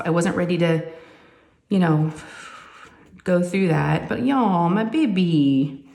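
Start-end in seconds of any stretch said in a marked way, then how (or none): 4.7-5.8 wistful. Real, not acted. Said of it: "I know it's sad".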